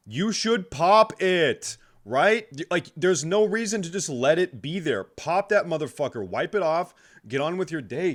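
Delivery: loud, high, exasperated; worked-up rant. Acted. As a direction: rant about it, fired up. Worked-up rant about pimples.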